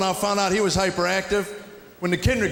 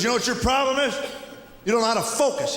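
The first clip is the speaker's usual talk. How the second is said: teacher lecture; 5 semitones higher than usual. Retold or imitated. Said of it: "So he goes".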